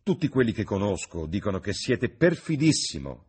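exclaiming. A narrator's reading. Old lady chiding Lord Henry, exclaiming. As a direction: exclaim it a little high and loud. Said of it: "esclamò la vecchia signora".

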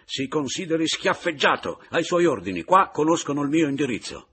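grido alto e forte di sfida; gridato. A narrator's reading. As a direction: lancia la sfida urlando mentre si allontana. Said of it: "si ritraeva gridandomi". (urlo di sfida)

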